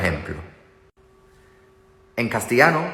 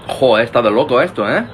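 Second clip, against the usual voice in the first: excited; 7 dB louder, faster than usual. Real, not acted. Loud exclamation.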